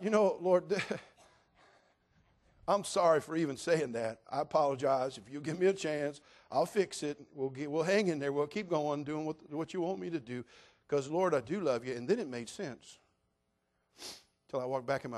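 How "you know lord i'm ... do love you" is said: apologetic prayer. Retold or imitated. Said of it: "And I thought".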